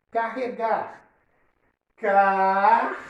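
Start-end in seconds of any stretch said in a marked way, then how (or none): 2.0-3.0 "Car-," held long on its own, R closing it; isolated syllable. Shown as a demonstration. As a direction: stretch "Car-," as a separate syllable. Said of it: "olha o R ficando aqui com essa sílaba". ("Car-," sílaba isolada e alongada)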